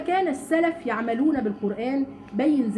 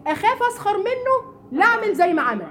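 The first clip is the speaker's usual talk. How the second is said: fearful pious voice; 8 semitones higher, 4 dB louder than usual. Retold or imitated. Acted quote of a fearful believer.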